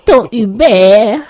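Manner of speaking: drawn-out, loud, high "Ton Hubert?"; astonished squeal at the news; shocked disbelief. Acted. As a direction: gasp it out in disbelief. Shocked friend hears fiancé name.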